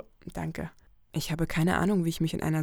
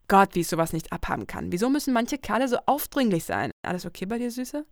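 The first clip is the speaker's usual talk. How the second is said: Lucy, fed up then caring; 4 semitones higher, 5 dB louder than usual. Acted. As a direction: vent about pushy guys, then soften for your friend. Lucy vents then checks on friend.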